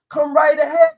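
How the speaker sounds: loud dare. Real, not acted. Daring critics to educate him.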